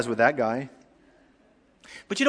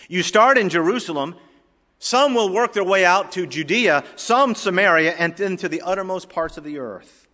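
higher, louder emphatic preaching; 7 semitones higher, 6 dB louder than usual. Real, not acted. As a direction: drive the list home to the congregation.

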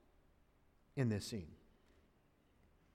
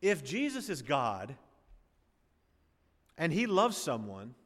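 ordinary talk

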